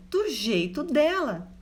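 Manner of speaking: ordinary talk, nothing marked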